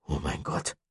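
a hushed, voiced "Oh mein Gott", still in shock; repeated in awe. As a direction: say it again, quietly stunned. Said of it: "wiederholte Chester".

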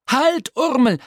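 loud high shout of alarm. A narrator's reading. Tim shouts at Urmel to stop, loud high shout. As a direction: yell halt, too late to stop him. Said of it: "schrie Tim Tintenklecks".

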